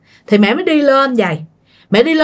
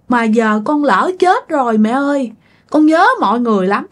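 retold crying; 4 semitones higher than usual. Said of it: "khóc quá trời".

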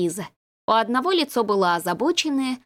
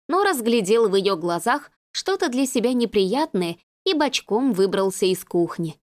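ordinary delivery, nothing marked

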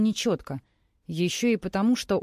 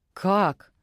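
roaring; 4 dB louder than usual. A narrator's reading. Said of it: "вдруг взревел похититель".

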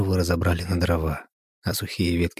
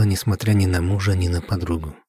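usual speaking voice

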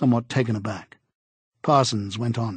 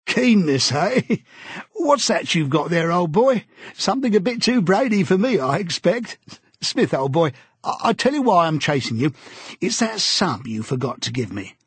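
hearty Parsons; 5 semitones higher than usual. A narrator's reading. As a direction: play the eager party bore, slapping backs. Parsons voiced by narrator.

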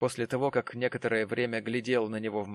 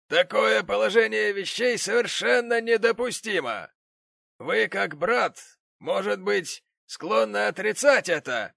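indignant gentleman; 11 semitones higher, 7 dB louder than usual. Acted. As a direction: scold like a pompous patron. The gentleman rebukes Tom.

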